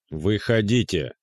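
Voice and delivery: slow drawn-out hoarse yell; hoarse night yell. A narrator's reading. Jealous man repeating his demand, hoarse yell. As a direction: drag the order out, hoarse. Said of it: "хриплый ночной вопль".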